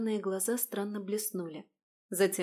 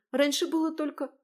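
cut off mid word; 7 semitones higher, 4 dB louder than usual. Acted. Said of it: "Кристина осеклась на полуслове".

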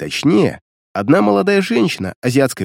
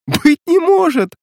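very high, drawn-out delighted exclamation; slow squeal of happy disbelief; laughing disbelief; slower than usual. A narrator's reading. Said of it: "засмеялась азиатка". (радостно, не веря глазам)

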